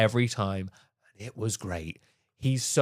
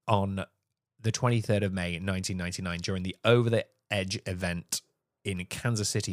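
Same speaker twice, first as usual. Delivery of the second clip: lower, subdued delivery; solemn account; 4 semitones lower, 4 dB quieter than usual. Real, not acted. Podcaster telling co-host of a wrestler's fatal fall, sombre. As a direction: report the tragedy gravely and quietly.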